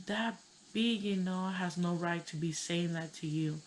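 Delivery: retold indignation on a friend's behalf; mad friend. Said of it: "she got mad".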